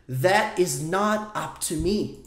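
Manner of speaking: "That is not up to me" spoken very slowly; slow model phrase. Shown as a demonstration. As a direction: stretch the sentence for learners. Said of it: "Olha só esse contexto". (frase dita bem devagar)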